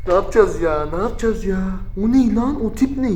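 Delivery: nervous high hushed voice; shaken and scared. Real, not acted. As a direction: talk it over still rattled by fear.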